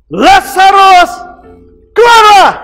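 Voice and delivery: booming, slow, drawn-out shout; loud commanding call. Acted. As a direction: summon Lazarus from the grave. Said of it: "Yesus berseru dengan suara keras".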